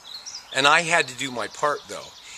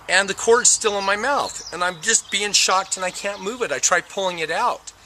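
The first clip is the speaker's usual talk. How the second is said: usual speaking voice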